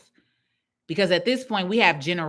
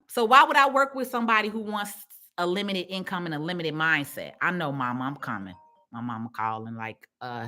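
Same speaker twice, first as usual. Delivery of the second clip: ordinary talk, nothing marked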